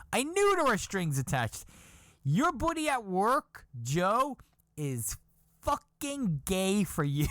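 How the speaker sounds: high teasing told-you-so voice; mocking wife. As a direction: drag out gay for you.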